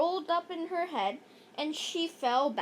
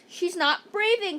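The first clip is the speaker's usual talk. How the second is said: mild shout; 4 semitones higher, 4 dB louder than usual. Acted. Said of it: "shouted Alexia".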